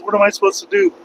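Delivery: jumps way up high on the question; high-pitched retold panic; squeaky panicked question. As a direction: voice cracks high in desperation.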